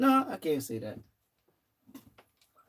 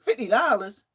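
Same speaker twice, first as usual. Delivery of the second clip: outraged disbelief; 5 semitones higher, 4 dB louder than usual. Real, not acted. Outraged at low pay offer.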